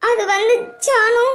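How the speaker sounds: slow, halting, tearful start. Acted. Crying girl begins to explain to her friend, tearful. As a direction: struggle to get it out through tears. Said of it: "ஏன் அழுதுட்டு இருக்க".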